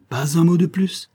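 high-pitched, firm cut-off; sharp interruption. A narrator's reading. Husband silencing his wife's lover, sharp interruption.

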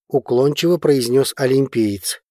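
plain reading voice

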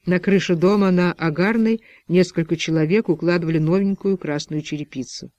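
plain reading voice

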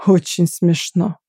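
unimpressed, dry reply; displeased. A narrator's reading. Nicholas, annoyed by her laugh, replying sourly. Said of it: "недовольно отозвался Николас".

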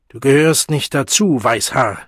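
wütend. Acted. Men drive the boy away.

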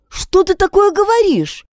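high, stunned question; shocked question. A narrator's reading. Friend hears a confession of theft, shocked question. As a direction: ask in shock, disbelieving. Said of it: "потрясённо спросила Пат".

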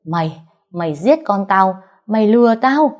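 angry accusation. Acted. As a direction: accuse him, building in force. Enraged father punching the deceiver.

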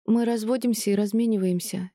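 ordinary delivery, nothing marked

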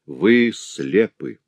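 very slow, heavy announcement; deliberate slow verdict; agitated, slow. Acted. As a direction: break the news slowly. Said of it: "Давид взволнованно".

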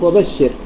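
slow وبشر stopped on a vowelless ر, weight on بش; pausal stress. Shown as a demonstration. Teacher showing how one stops, وبشر stressed on بش. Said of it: "بنفس الطريقة التي وقفت بها".

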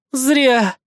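slow, smirking villainess. A narrator's reading. Amanda to Savage while pinned, smirking. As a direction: smirk the words out slowly. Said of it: "усмехнулась Аманда".

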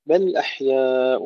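slow Quranic بل أحياء, no echo on the ل; no qalqala. Shown as a demonstration. Teacher showing students a clean بل أحياء with no bounce. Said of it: "ولا نقلقل".

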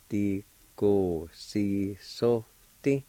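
"Ti, go, si, so, ti" evenly spaced, short gaps; measured syllables on "Ti, go, si, so, ti"; slow sounded-out pronunciation. Shown as a demonstration. Teacher repeating the word for explain, slowly sounded out. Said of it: "it's pronounced like this".

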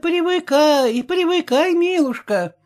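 tender coaxing. A narrator's reading. Cook gently coaxing the village girl, tender voice. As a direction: soothe the newcomer kindly. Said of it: "ласково говорила ей кухарка".

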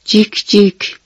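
storyteller's cheep-cheep chick voice. A narrator's reading.

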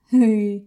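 short malicious cackle; evil laugh. A narrator's reading. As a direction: cackle wickedly. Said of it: "Злобно засмеялась Эрвина". (злобный смешок)

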